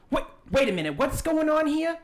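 put-on high-pitched old lady, puzzled. Old lady at the gambling booth interrupting, high and puzzled. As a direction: pipe up as a confused old woman. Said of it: "you hear the old lady".

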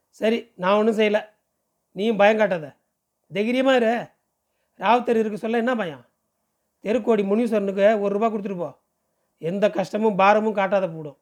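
lightly acted woman urging courage, a little lifted; mildly brisk, firm reassurance; reassuring Kousalya. Woman telling the frightened cleaner to be brave, mildly firm reassurance.

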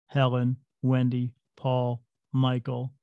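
lightly voiced machine reading out names, slowing at the end; a hint of a flat talking device; computer voice. Imitating the ghost box to the listener, a mild computer voice. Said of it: "it says in this computer voice".

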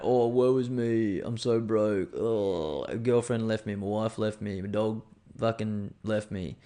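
lightly hammed-up whining, slowed; a hint of a sorry-for-himself moaner; mock self-pity. Mocking people who invent problems, slow mock whine. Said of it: "or just things like that".

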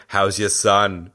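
a light, slow Arnold voice; a hint of Arnold asking about the son; Arnold impression. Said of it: "I really like your Arnold impression".

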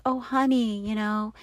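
mock-sweet wifely coo; nice, sweet tone. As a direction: say it gently, sweet-talking a husband. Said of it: "didn't sound so nice and, and, like".

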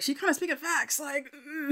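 high sassy aside. Retold or imitated. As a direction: say it with side-eye sass. Sassy reaction to TV.

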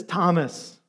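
softened name call; loving, gentle. Retold or imitated. Jesus calling doubting disciple by name, gently. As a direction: say the name tenderly. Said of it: "in a loving, gentle way".

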